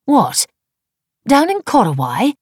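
high, loud disbelieving questions; astonished. A narrator's reading. Wife learning where husband is going, astonished. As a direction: gape at the news, pitch leaping. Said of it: "She gaped at him".

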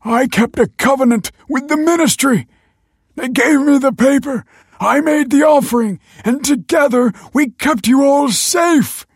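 high, loud, frantic shouting; impassioned accusation. A narrator's reading. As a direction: shout your self-justification, building to blame. Father defends himself, accusing the family.

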